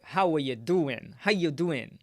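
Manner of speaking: put-on a light Italian accent greeting; hint of an Italian-accented hello; playful Italian accent. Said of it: "Insert Italian accent".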